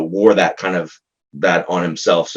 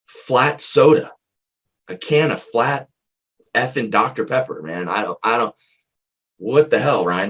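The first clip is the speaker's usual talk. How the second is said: retold client outburst; 3 semitones higher than usual. Client blurts odd memory, retold.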